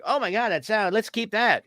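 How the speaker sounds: high, thrilled approval; delighted director. Retold or imitated. Directors cheer the added no, pitched high. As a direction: squeal with delight at the take. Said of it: "And then they".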